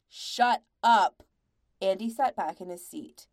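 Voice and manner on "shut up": loud, forceful cut-off; shouted command. A narrator's reading. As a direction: shout over the quarrel to silence it. Andy cuts off the screaming quarrel.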